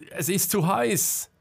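panicked warning; alarmed shout. A narrator's reading. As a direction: yell back from the heat. Marcel driven back by heat.

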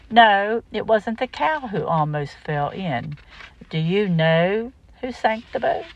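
gentle storytelling read-aloud; reading to children. Acted. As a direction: tell the story to a small child. Reads second picture book aloud.

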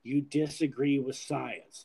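lightly voiced public health official; a slight, measured impersonation, statement in two parts; hint of an impression, evenly delivered; Fauci. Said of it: "That's my best for Fauci impersonation".

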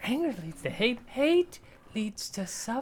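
high Muppet voice; squeaky puppet Yoda. Retold or imitated. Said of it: "you gotta go Muppet here".

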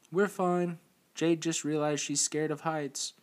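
high loud call down a cliff; hollering. Acted. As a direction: holler it down to someone far below. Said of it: "Evelyn hollered back down to Noah".

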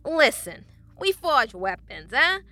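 loud, strained friendly voice; forced smile. A narrator's reading. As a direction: keep smiling through the nerves. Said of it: "forcing his smile to continue".

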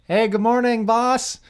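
bright, eager-to-please hello; happy greeting. Retold or imitated. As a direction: greet the boss sunnily to stay on his good side. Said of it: "I'm all happy".

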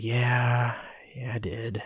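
sheepish whisper; guilty admission. Retold or imitated. Admitting to Eamon he deleted everything, guilty whisper. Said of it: "put your head down like a guilty dog".

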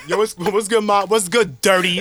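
lightly voiced street catcaller, a bit brighter; mock the guys on the corner, loosely; catcalling guy. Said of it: "very that energy".

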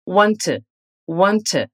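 "Want to" linked as "wanna", the t softened into the vowel. Shown as a demonstration. Teacher showing learners how to link "Want to". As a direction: run "want to" together, no clear "to". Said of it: "tem um som de t e não de to".

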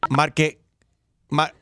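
lightly done automated recording; phone menu voice. Acted. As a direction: read it like a robocall message. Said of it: "¿Es una computadora".

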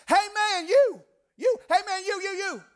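high, loud Tennessee redneck holler. Retold or imitated. Redneck man sprinting after two strangers, hollering. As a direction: call out urgently like a Southern country man. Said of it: "the most Tennessee redneck man".

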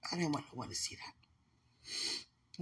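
slow secretive whisper; slow private whisper about the tattoos. Real, not acted. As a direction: whisper it so nobody else hears.

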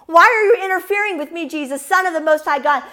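preacher voicing a screaming demon, half-strength; retold demon scream. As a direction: cry it out, lightly imitating a protesting demon. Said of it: "the demons are screaming".

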